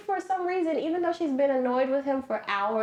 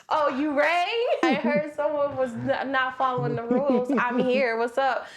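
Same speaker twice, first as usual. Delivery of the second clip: mock gremlin; 3 semitones higher than usual. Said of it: "the gremlin was like".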